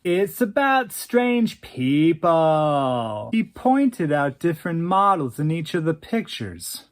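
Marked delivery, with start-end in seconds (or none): 0.0-3.3 very slow pretentious drawl; airy drawl. Acted. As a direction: savor each word, very slow. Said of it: "in that airy drawl of his".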